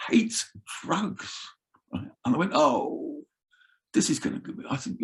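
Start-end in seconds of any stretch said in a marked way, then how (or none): 2.5-4.5 muttered aside. Retold or imitated.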